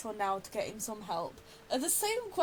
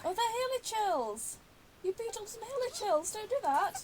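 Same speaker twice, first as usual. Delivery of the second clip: amused protest; 8 semitones higher than usual. Real, not acted. Player protests at the scene.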